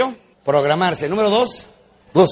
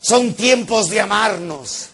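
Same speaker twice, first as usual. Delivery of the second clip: preacher voice; 4 semitones higher, slower than usual. Retold or imitated. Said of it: "me dice uno de esos evangelizadores".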